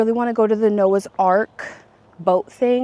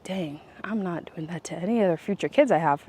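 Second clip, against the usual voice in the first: whispered thought; 3 semitones lower, 7 dB quieter than usual. Retold or imitated. Inner thought as a parent.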